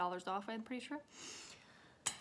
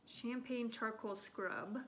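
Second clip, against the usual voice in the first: slow reading; slower than usual. Real, not acted. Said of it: "Sh-, uh".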